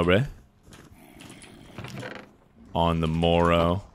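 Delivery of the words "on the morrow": slow, old-timey mock delivery; archaic mock phrase. Shown as a demonstration. Streamer trying out an old phrase, slow and mock-archaic. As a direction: savour it like an olde-worlde phrase. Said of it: "No one says shit like that anymore".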